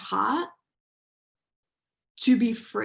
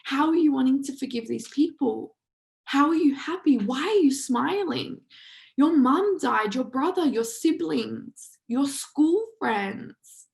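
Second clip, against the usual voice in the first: incredulous; 4 semitones higher, 3 dB louder than usual. Retold or imitated. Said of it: "everyone was like".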